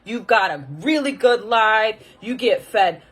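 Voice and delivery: imitated scolding mother, stretching the key words; mother with attitude. Mother dismissing her child's resolution, imitated indignant attitude. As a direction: lecture like an exasperated mother. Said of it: "literally had an attitude".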